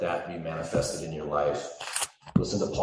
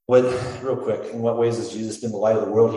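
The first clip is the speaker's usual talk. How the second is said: loud energetic; 5 semitones higher, 9 dB louder than usual. Real, not acted. Sudden energetic question to congregation.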